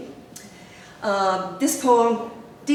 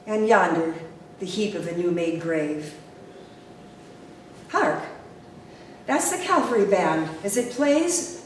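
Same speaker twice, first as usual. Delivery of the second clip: solemn, emphatic verse reading; poem recitation. Acted. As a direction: recite the war poem with measured drama.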